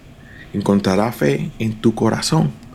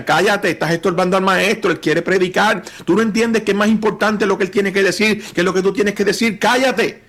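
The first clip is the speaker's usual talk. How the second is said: mildly raised, higher-pitched rebuke; scolding; 6 semitones higher than usual. Acted. Disciples telling a beggar to stop bothering the teacher, lightly acted scolding. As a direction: hush a nuisance sternly, pitch climbing.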